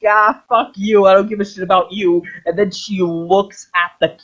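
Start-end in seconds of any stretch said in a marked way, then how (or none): 0.1-2.2 dismissive goddess. Retold or imitated. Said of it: "and it's like".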